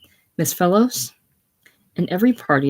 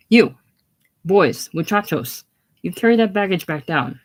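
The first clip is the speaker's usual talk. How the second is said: put-on shouting at boys; 4 dB louder than usual. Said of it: "shouting at the Mexican boys".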